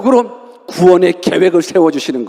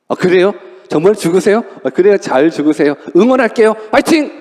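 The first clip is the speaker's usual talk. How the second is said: mock cheerful disciple. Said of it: "아니면".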